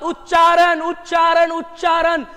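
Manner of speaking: उच्चारण said three times, the first loudest, then easing off; drilled repetition. Shown as a demonstration. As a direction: hammer उच्चारण home for the class to repeat. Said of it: "दो बार, तीन बार तुम भी बोलो". (उच्चारण शब्द को तीन बार ज़ोर देकर दोहराना)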